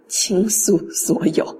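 whispered lyric, hammed-up sentimental; mock dramatic whisper. 老师故作深情地低声念歌词. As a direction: breathe it out like a corny ballad. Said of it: "念出来觉得有点瘆得慌".

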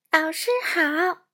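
put-on a little girl blurts it out loud and slow; loud, careful child's voice; eager loud greeting. A narrator's reading. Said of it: "佩佩赶紧大声说". (小女孩大声慢慢地说)

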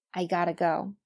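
"gotta" flapped, ending on a weak vowel; weak-form gotta. Shown as a demonstration. Teacher models the four pronunciations, weak form. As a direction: say "gotta" as one reduced word. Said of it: "看一下这四句的发音".

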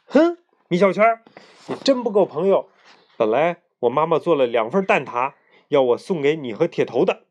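a huff that starts loud then settles; mock-indignant scolding, mildly voiced; angry. Boy angrily telling his friend he is no real friend, mock anger. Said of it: "很生气地看着我说".

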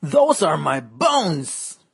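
slow, lightly growled dog voice. Acted. Dog guarding its bones from the fly, slow light growl. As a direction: drag it out like a grumpy dog. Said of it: "A dog growled".

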